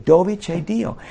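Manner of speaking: ordinary talk, nothing marked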